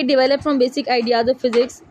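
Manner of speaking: spaced words, read from the book; slow dictation. Shown as a demonstration. Teacher reading the textbook phrase to students, slow. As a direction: dictate it slowly.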